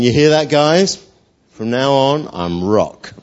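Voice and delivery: proud swagger to the lads; puffed-up boasting. Acted. Simon shows off his new name to the guys, boasting. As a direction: announce it with your chest puffed out. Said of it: "Puffing his chest out".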